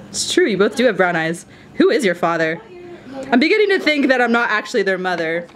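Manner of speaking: ordinary delivery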